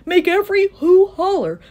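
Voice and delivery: urgent rallying. A narrator's reading. Horton tells the mayor to rouse every Who, urgent. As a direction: urge a holler from everyone. Horton urges rising noise.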